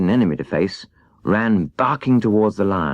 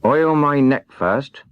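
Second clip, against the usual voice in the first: higher, slow creaky plea from a rusted man; stiff tin man; 6 semitones higher, much slower than usual. Acted. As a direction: squeeze it out like rusted metal. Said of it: "replied the Tin Woodman".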